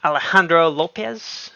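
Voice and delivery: a put-on Latin accent sliding toward Russian on the surname. Streamer reading out a donor's name, in a put-on Latin accent. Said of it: "I was supposed to be, like, a Latin accent".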